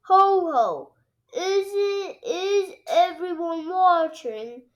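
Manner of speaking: dad showing off in the kitchen; Daddy Pig showing off. A narrator's reading. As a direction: call for attention like a showman dad. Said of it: "he asks".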